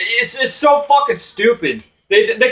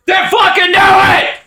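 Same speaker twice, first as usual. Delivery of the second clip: higher, louder furious yell; angry outburst; 9 semitones higher, 3 dB louder than usual. Real, not acted. Fed-up fan shouting at the wrestler, real anger. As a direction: snap and explode at them.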